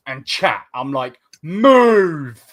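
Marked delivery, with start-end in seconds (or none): 1.4-2.4 loud, high retold yell; impatient shout. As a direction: shout at dawdlers to shift. Retold impatience at slow walkers.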